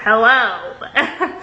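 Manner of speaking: clipped, unimpressed hello with a laugh; a cold, laughing hello; curt hello. Shown as a demonstration. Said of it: "exactly how I would have said it".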